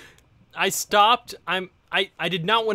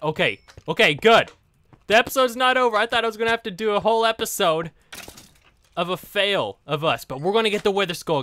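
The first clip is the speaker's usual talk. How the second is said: excited; 4 semitones higher, 5 dB louder than usual. Real, not acted. Regains hope for the skull.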